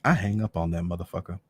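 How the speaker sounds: ordinary delivery, nothing marked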